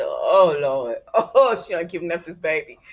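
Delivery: loud laughing gasp of disbelief; laughing shock. Retold or imitated. Vlogger voicing EJ finding the baby, laughing shock.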